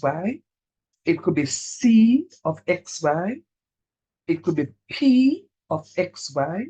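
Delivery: slow, deliberate phrases with pauses; very slowly. Shown as a demonstration. Teacher walking students through an exam question, slowly. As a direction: lay it out step by step, slowly. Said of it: "So I'm gonna say this very slowly".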